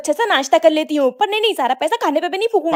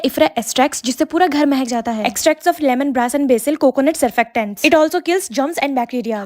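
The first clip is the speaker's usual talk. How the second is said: slow ad read; 3 semitones lower, slower than usual. Acted. Product ad read.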